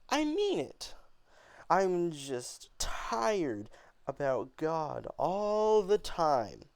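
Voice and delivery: mock God with rising fury; angry and mocking. Beneatha scorning God in front of Mama, angry. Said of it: "talking down on God".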